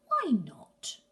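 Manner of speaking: breathy whispered repeat. Acted. Gruffalo's child asks again, now whispering. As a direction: drop it to a whisper. Child pleads with her father.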